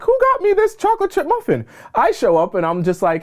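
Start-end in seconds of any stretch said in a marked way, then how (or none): 0.0-1.6 high, bright astonished question; delighted surprise. Acted. New hire asking the office who left the muffin, high delighted surprise. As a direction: ask in giddy disbelief.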